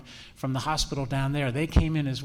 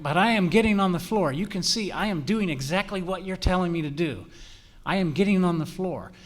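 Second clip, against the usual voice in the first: hammed-up cooperative detainee; playful voice of someone getting down; cooperative suspect; 2 semitones higher than usual. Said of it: "engage us in conversation and say".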